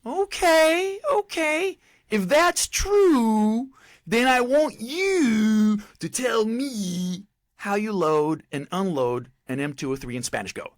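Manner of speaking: very high, loud, drawn-out challenge; imitated top drill sergeant. Top drill sergeant tests recruit's Spanish, high drawn-out holler. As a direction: stretch the words in a mock sergeant's holler, easing down at the end. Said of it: "the top drill sergeant goes".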